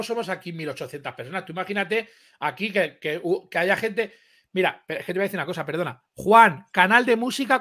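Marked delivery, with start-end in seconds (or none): 6.1-7.6 calling out. Real, not acted. Calling out to the cohost.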